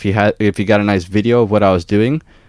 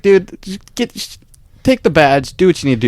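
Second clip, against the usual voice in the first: exasperated retort; 10 semitones higher than usual. Retold or imitated. Heated exchange with inspector.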